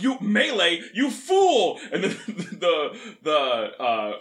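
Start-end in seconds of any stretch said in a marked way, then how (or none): 0.0-1.8 high mock villain cry; lizard warrior. Retelling a comic, the lizard taunts the drow in a high voice. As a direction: sneer it out like a comic-book lizard. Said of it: "the lizard race is like".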